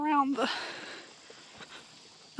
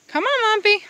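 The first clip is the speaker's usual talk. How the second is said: even higher loud call; louder, higher call to the goat; 11 semitones higher, 8 dB louder than usual. Real, not acted. Calling goat again.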